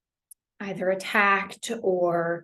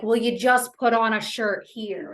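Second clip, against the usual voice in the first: louder, mildly impatient mock order; brusque reminder; 5 dB louder than usual. Caregiver pushing someone to get dressed, mildly brusque order. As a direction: toss the instruction out, a touch exasperated.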